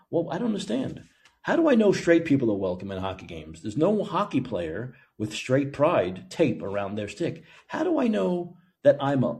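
mock bewildered complaint. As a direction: pitch swooping up, feigned confusion. Mock complaint as a needy fan.

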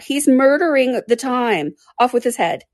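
high, drawn-out mock bawl; high, indignant royal outcry; mild mock bawl. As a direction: bawl it lightly as an outraged queen. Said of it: "the Queen bawled out".

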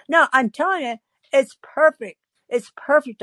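insistent high "It's perfect"; high insisting. Retold or imitated. Insisting to John.

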